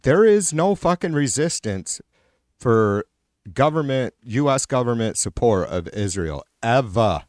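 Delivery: irritated, emphatic insistence; really irritated. Real, not acted. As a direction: hammer out the point in real frustration. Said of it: "I'm really irritated".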